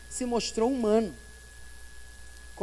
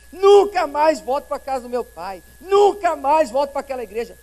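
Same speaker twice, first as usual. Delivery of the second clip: defiant vow; 3 semitones higher, 9 dB louder than usual. Retold or imitated. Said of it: "Essa palavra nunca é muito forte".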